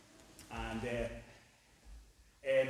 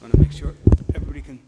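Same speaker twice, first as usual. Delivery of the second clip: calling out; 19 dB louder, much faster than usual. Real, not acted. Addressing the whole room.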